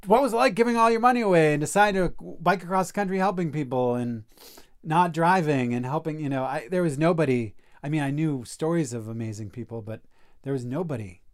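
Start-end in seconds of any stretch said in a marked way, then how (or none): 0.1-6.2 eager phone question. Retold or imitated. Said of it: "I couldn't call somebody like".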